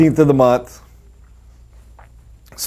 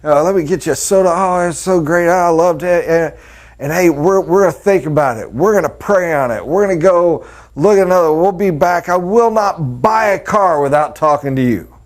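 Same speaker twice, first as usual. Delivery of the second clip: eager customer; 5 semitones higher than usual. Retold or imitated. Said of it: "Heck, they'd buy me a gift".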